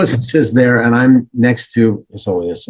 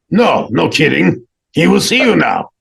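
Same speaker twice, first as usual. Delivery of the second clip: insistent secretary; 7 semitones higher, 4 dB louder than usual. Retold or imitated. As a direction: insist on it, pitched well up. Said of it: "And he goes".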